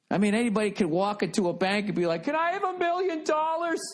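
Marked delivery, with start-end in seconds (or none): 2.2-3.8 very high, silly voice of a hopeful customer; mock naive borrower. Anybody walking into a bank for a loan, in a silly high voice. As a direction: ask it like a clueless customer, squeaky high.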